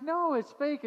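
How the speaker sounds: put-on high, loud frightened child; scared little girl. Pastor voicing a girl scared of a spider, high and loud. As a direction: cry out like a terrified little girl. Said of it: "she's like".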